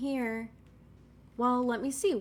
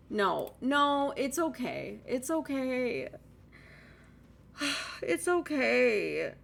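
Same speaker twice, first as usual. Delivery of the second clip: self-consoling; slower than usual. Real, not acted. Consoling herself after wasted time.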